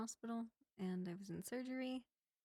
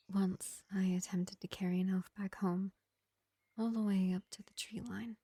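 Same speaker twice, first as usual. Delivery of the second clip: lightly voiced vampire healer, projected above the chatty voice; gentle vampire medic; 7 dB louder than usual. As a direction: play a measured vampire reassuring a wounded elf, with long pauses. Plays vampire medic to an elf.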